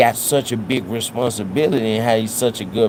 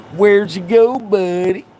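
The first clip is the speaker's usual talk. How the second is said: very high, raised, put-on country accent; 9 semitones higher, 5 dB louder than usual. Retelling calling out to a troll who left the chat, in a country voice. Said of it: "You got me using my country voice".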